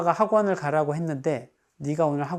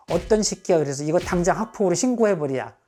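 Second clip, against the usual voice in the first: outraged mother; 3 semitones higher, 5 dB louder than usual. Shown as a demonstration. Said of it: "일을 크게 만든 엄마".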